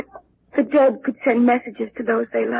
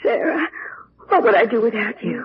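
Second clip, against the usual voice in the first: crying out through tears; weeping, clinging for comfort; sobbing; 2 semitones lower than usual. Acted. Distraught girl to her maid, crying through the words.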